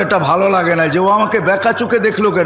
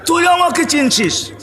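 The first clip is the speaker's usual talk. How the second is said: high, drawn-out preacher's cry; 7 semitones higher than usual. A narrator's reading. King crying out as he sees himself truly, crying out. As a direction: cry it out slowly at a high pitch. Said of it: "চিৎকার দিয়ে বলছে".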